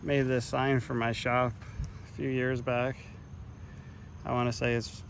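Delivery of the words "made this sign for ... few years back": winded from hard work; breathless after working; out of breath. Real, not acted. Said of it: "And I'm out of breath from working".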